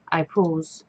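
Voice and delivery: whispered stage direction. Real, not acted. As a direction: breathe it out unvoiced. Whispered narration aside.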